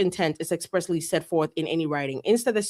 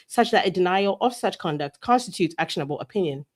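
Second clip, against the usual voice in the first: put-on British accent; 2 semitones lower than usual. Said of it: "I'm doing it for the rest of the page".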